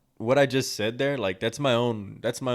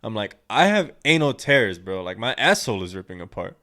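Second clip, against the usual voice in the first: incredulous outburst; 4 semitones higher, 7 dB louder than usual. Retold or imitated. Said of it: "I was like".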